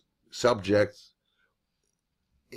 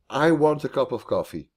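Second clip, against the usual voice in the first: "I" set high, the rest of the sentence falling away; emphasize the word "I"; stress on I; 5 semitones higher, 3 dB louder than usual. Shown as a demonstration. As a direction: lean on "I", let the rest follow. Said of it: "If you emphasize the I".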